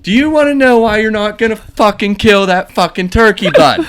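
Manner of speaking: high, loud mocking rant at a coworker; imitated angry shout. Pirate coworker taunting the kid about the turkey, loud angry shout. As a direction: yell it like a furious hothead goading someone. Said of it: "He's really pissed off".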